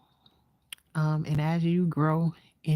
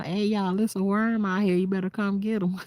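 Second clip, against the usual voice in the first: calling out; 5 semitones higher than usual. Retold or imitated. Calling family about a worm.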